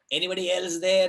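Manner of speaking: half-hearted repeat of the desperate call; crying out. Retold or imitated. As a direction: call out again, still hoping. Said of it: "cries out".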